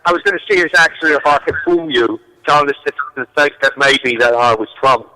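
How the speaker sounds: putting on an English accent; attempted British accent. Shown as a demonstration. Guest trying to fool the hosts, in a British accent. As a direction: try to pass as a Londoner in an English accent. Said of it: "I actually have a pretty good accent".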